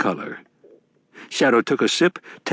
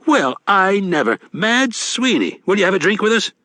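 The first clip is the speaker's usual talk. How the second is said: a touch higher, genial con man; sly old grifter, a bit higher; lightly voiced Wednesday; 10 semitones higher than usual. A narrator's reading.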